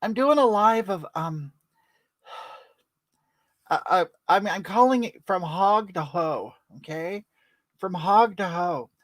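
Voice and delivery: talking with dentures just put in; words shaped around loose false teeth. Real, not acted. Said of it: "I put my teeth in".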